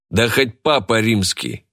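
slow, firm dismissal; stern, curt. Acted. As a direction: cut him off coldly. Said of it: "жёстко ответил Рычков".

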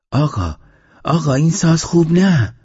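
بسیار زیرتر و بلندتر، با التماس. A narrator's reading. Fat woman pleads with fiddler.

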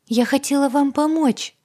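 high, loud pleading excuse; justifying herself. Acted. Agata to heroine, high pleading excuse. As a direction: plead her good intentions. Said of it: "начала оправдываться она".

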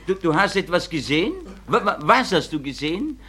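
the teacher can't believe her ears; startled stammering teacher; surprised teacher. Acted.

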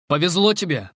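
irritated remark. Acted. Tarara, to the narrator, irritated. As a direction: let your annoyance show. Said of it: "в её голосе раздражение".

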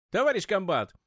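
loud urgent call from the doorway; shouting. Acted. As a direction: shout it, bursting in with news. Duty officer bursts into gym.

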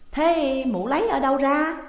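high, loud demanding question; exclaimed challenge. A narrator's reading. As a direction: cry out, challenging her. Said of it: "Nguyệt Ánh thì kêu lên". (kêu lên chất vấn)

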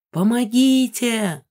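drawn-out high call for help, slow; desperate slow cry. A narrator's reading. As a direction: shout for help through the house. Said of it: "раздалось на весь дом".

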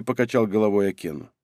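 usual speaking voice

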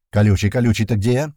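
loud, urgent calling out; shouted search call. A narrator's reading. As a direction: call for a missing comrade. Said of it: "кричал Слива".

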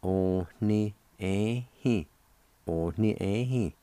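"on ni, eh, he" run together as one word; parts joined together. Shown as a demonstration. Teacher joining the parts for learners, careful model. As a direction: model the whole word "on ni, eh, he" twice. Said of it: "And together".

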